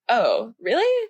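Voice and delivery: slow, sarcastic fake surprise. Shown as a demonstration. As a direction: play dumb, drawn out. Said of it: "our idea, like, of sarcasm is".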